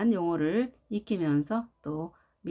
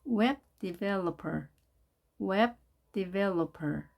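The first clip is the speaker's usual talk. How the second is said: slow model read; much slower than usual. Shown as a demonstration. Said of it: "model read".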